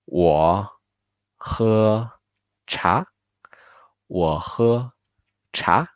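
我喝茶 word by word, 茶 rising; slow careful demo of 我喝茶; model sentence. Shown as a demonstration. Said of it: "how to say, "I drink tea"?".

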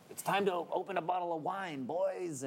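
bad Wisconsin accent, high; a lightly done Wisconsin accent. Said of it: "doing a bad Wisconsin accent right now".

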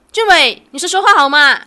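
loud, pushing him to speak; demanding answer. Acted.

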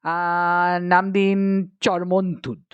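drawn-out pondering sound, then the idea; thoughtful suggestion. Acted. Gangaram suggesting a title after some thought, pondering. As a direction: think aloud before proposing it. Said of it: "একটু ভেবে নিয়ে গঙ্গারাম বলল".

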